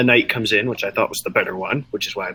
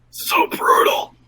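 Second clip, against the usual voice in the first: whisper; slower than usual. Real, not acted. Awed whisper.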